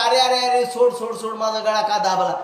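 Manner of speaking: mildly acted plea of a choked child, pitched a bit up; imitated child's cry. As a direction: protest like a child being grabbed, half-acted. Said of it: "तो लहान मुलगा ओरडायचा". (लहान मुलाच्या ओरडण्याची हलकी नक्कल)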